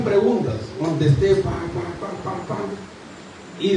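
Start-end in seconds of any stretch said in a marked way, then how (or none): 1.4-2.6 rapid-fire patter. Retold or imitated. Mimics answering exam questions quickly.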